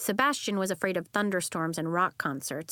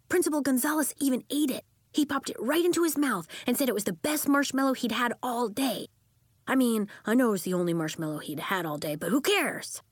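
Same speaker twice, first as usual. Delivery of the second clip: fast, higher excited chatter; 4 semitones higher than usual. Acted. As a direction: gush with joy. Beaming after success.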